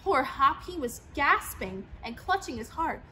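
usual speaking voice

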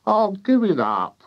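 high, dismissive wife; fed-up farmer's wife. A narrator's reading. Wife abandoning the experiment, high dismissal.

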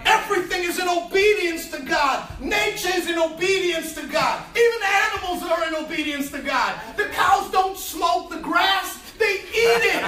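preaching at full force. Acted. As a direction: ride the wave of the sermon. Preaching climax, shouting.

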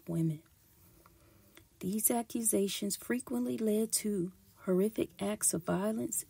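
measured, emphatic documentary-style read; formal read-aloud delivery; scripted history narration. Acted. Reads a prepared history script.

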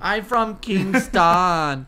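very slow Jamaican drawl; mock Jamaican accent. Shown as a demonstration. Friend copying the host, very slow mock Jamaican accent. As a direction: drag out "I'm from Kingston" in a Jamaican accent. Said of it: "That's my Jamaican accent".

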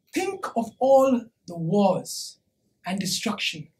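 low, soft and slowing; subdued, sombre weight; grave lament. Acted. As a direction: sink into a quiet, heavy reflection. Lamenting wars before the crowd.

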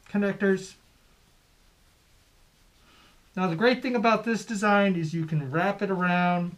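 muffled behind bandana; through a cloth mask. Real, not acted. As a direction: mouth covered by fabric. Seen 2: Red bandana covers mouth and nose throughout the labelled words.

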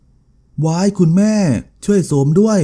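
high shriek calling for mother's help. A narrator's reading. Daughter sees her face, shrieks high for mother. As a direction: cry out high to mother in panic. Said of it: "โสมวันก็กรีดเสียงร้องลั่น".

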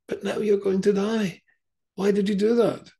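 high, loud pleading cry of a dying frog. Acted. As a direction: cry out in shock as the frog dies. Frog's dying words in a fable.

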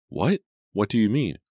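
high, puzzled questioning; startled disbelief. A narrator's reading. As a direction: react as if caught off guard. Jenny reacts to boy's denial.

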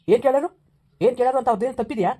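wife hits back at her husband in a loud angry retort. Acted. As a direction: snap it back at him.

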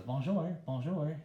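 a hint of a parrot saying bonjour; mild bird mimicry through the wall; mynah bird voice. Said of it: "in bird voice".

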